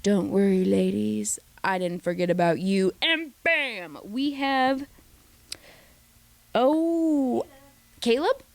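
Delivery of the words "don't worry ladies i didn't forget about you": dark lording. Retold or imitated. Ariana teasing the women like a dark lord. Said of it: "Such good dark lording".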